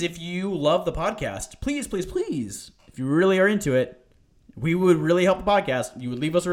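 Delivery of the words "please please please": slow, drawn-out begging please; high, stretched-out plea; pleading. Real, not acted. Begging listeners for reviews.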